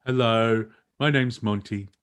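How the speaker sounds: lightly put-on comic voice; a hint of Mighty Boosh silliness; silly character voice. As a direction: slip into a daft introduction voice. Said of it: "Why am I talking in this voice?".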